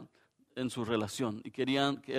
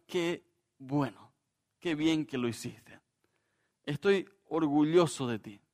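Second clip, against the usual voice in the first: affirming praise. Pretend. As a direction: tell them sincerely you're proud. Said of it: "Da gusto que te digan".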